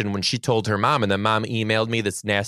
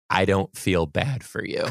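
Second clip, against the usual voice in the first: level, restrained refusal of sympathy; unsympathetic; 2 semitones lower than usual. Retold or imitated. Teacher to the crying student, cool and unsympathetic. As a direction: state it coolly, without raising the voice.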